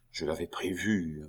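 hushed confidential remark; murmured aside. A narrator's reading. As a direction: say it softly, for one listener only. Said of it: "murmura le duc à sa sœur".

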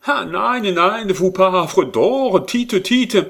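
loud, high, slow German pleading; desperate German lover begging; supplication enflammée. A narrator's reading. Hermann pleads excitedly. (supplique ardente avec accent allemand)

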